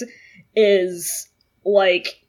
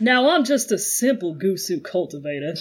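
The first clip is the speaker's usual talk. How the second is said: Southern drawl; 3 semitones lower, 3 dB quieter than usual. Pretend. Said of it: "a very sweet Southern drawl".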